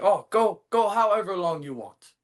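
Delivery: excited promoter. Retold or imitated. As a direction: toss it off like a generous boss. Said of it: "they were like".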